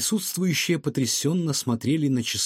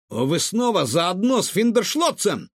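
high, accusing exclaim; indignant cry; 6 semitones higher than usual. A narrator's reading. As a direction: call her out on it. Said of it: "воскликнул Гаврош". (Гаврош с возмущением восклицает)

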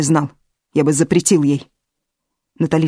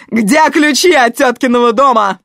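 higher, loud furious demand; angry demand; 6 semitones higher, 7 dB louder than usual. A narrator's reading. Natalia demands the aunt's keys, loud angry demand. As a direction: bark for the keys.

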